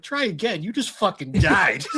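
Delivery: high-pitched mock disbelief; incredulous, pitched well up; incredulous retort. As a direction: throw it back in amused outrage. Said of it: "I'm like".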